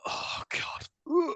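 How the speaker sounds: high, strangled revulsion; high-pitched grossed-out reaction; disgusted groan. Retold or imitated. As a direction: recoil in mock horror. Reacting in disgust to jizzy beer.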